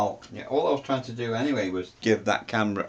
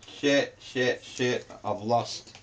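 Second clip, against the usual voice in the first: soft, high repeated cursing; quiet panicked realisation; real dismay; 3 semitones higher, 5 dB quieter, much slower than usual. Real, not acted. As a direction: curse under your breath as it sinks in. Just lost the test recording.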